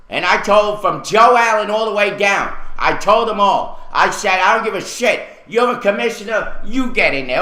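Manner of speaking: insistent, exasperated ranting; fed-up anger. Real, not acted. Resident recounting confronting commissioners, angry and fed up. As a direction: lay into them with real anger. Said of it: "I'm sick and tired of this crap".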